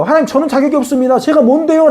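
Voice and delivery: a hint of an unsure man asking God; mild pleading Moses. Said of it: "모세가요". (살짝 높게, 가볍게 흉내 낸 하소연하는 모세)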